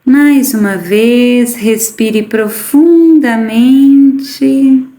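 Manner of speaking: very slow, stretched-out breathing cues; guided meditation. Acted. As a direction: draw the key words out long, pausing between phrases.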